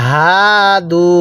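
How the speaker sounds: হাদু with a light breathy হ from the throat, slow; soft throat ha. Shown as a demonstration. Teacher shows the correct throat হ in হাদু. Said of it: "গলার মধ্যে হালকা আওয়াজ হবে".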